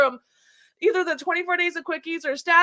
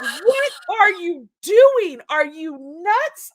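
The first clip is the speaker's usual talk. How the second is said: slow, louder, exasperated daughter; mock outrage; 3 semitones higher, 5 dB louder, much slower than usual. Mother mimicking daughter scolding dad, hammed-up outrage. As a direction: drag it out like a horrified teen. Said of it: "She was so mad".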